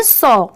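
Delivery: सॉ with an open aw vowel, not सा or स्वा; saw said right. Shown as a demonstration. Teacher showing students the correct सॉ, clear and careful. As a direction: say सॉ as one clean syllable, no w glide. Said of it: "इसे हम सा नहीं पढ़ेंगे".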